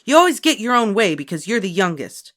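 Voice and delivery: high, loud arguing big sister. A narrator's reading. Beezus arguing with Ramona, loud and heated. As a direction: argue back hard. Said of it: "argued Beezus".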